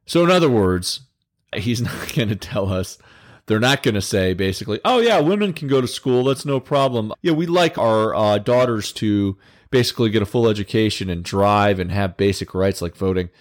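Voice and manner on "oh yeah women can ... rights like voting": mock agreeable. Mocks what Taliban won't say.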